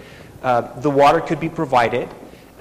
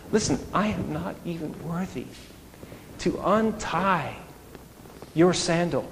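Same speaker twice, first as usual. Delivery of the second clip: flustered protest; 3 semitones higher than usual. Retold or imitated. John the Baptist protesting to Jesus.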